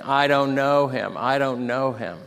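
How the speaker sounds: loud, insistent denial easing off; mildly acted cursing protest; swearing denial. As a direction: insist forcefully, then drop a little. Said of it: "he's even swearing and cursing".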